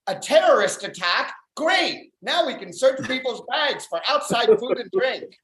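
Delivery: high-pitched, eager mock delight; mock glee, jumping high on "Great"; delighted movie theater. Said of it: "movie theaters were like".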